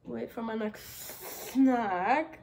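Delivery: slow mock snake, stretched hiss on snack; playing a snake. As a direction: draw out the s like a snake. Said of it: "as a snack".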